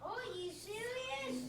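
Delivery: high-pitched "Are you serious"; exclamation. Shown as a demonstration. Student reads exclamation for teacher, high exclaiming. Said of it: "if there was an exclamation point".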